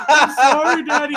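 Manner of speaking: put-on very high little-kid apology; imitated upset child. Imitating his child after scaring her, high apology. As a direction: apologize like a small, scared child.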